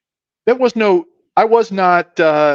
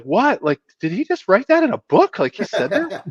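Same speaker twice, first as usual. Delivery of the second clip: stunned disbelief; 6 semitones higher than usual. Retold or imitated. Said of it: "I was like".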